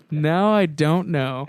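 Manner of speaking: "don't know" drawn out slowly; slow, deliberate doubt. Real, not acted. Co-host unsure about sarcasm, slowly drawing out "don't know". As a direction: stretch out "don't" and "know", pondering.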